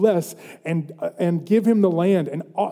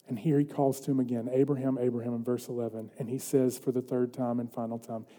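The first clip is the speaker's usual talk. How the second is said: low, hushed solemn reading; quiet, lowered preacher's voice; scripture reading; 4 semitones lower, 8 dB quieter than usual. A narrator's reading. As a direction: read scripture softly and gravely.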